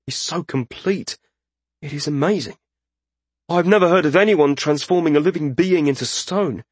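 high, wondering spellcaster; awed journeyman mage. Acted. Journeyman marvels at the statue.

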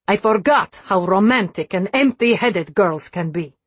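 put-on cold Russian accent, scornful and sharp; angry Russian accent. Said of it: "her Russian accent sharp with anger".

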